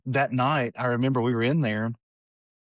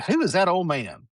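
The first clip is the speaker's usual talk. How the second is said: higher-pitched retold granny question; questioning grandmother; 6 semitones higher than usual. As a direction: imitate a puzzled grandmother asking.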